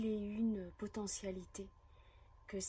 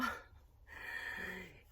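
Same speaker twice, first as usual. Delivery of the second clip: short laugh. Real, not acted. Speaker announcing a big day to viewers, short laugh. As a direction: laugh briefly between phrases.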